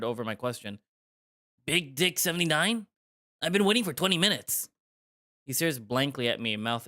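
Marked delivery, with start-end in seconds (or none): 1.7-4.7 mock flirty. Tom pretends hookup date.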